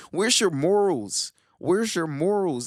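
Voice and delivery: stern rhetorical challenge; scolding demand. Real, not acted. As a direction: drag it out like a scolding. Scolding viewers about morals.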